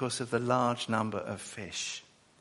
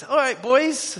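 high, loud friendly hail; high casual shouted greeting; calling out; 12 semitones higher, 8 dB louder, slower than usual. Retold or imitated. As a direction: call out to the lads in the boat. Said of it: "The word is lads, it's boys".

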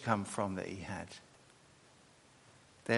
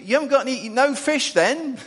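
teasing question; 12 semitones higher, 9 dB louder than usual. Retold or imitated. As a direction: rib them gently about the empty net. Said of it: "there's this question".

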